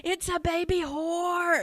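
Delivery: put-on high, loud, stretched-out kid yell; mock screaming little kid; imitated child's scream. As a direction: holler it slowly as a child's big announcement. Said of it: "Screaming it, telling the other children".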